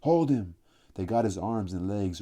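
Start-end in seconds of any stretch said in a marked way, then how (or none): 0.0-0.5 high, loud shout. A narrator's reading. A boy shouting to pin Robert down, a loud high shout. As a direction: yell the order, carried away. Boys pinning Robert in the game.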